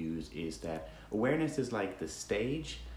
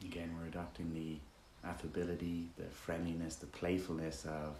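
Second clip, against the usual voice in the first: easygoing meditation guide, softer toward phrase ends; relaxed, conversational meditation leading with roomy silences; guided meditation; 7 dB quieter than usual. Acted. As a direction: guide listeners gently with long pauses between instructions.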